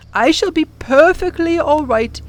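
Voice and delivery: shall leaned on, gentle and steady; calm reassurance. Acted. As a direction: professor calmly reassuring the children.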